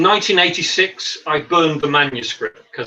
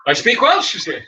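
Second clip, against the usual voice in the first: higher, lilting Welsh accent; 6 semitones higher than usual. Shown as a demonstration. Man after a few drinks with Welsh guys, Welsh accent. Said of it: "bit of a chameleon when it comes to my accent".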